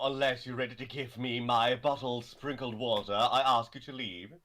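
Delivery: haughty diva dismissal; campy drag queen. Acted. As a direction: wave them off like a vain star. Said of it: "you really are arrogant".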